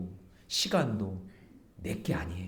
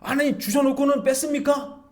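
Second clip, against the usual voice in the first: higher, louder mock accusing whine; complaining protest; 12 semitones higher, 6 dB louder than usual. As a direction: whine it like arguing with God. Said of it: "하면서 막 그렇게 따지는". (높고 크게 따지듯 불평하는 말투)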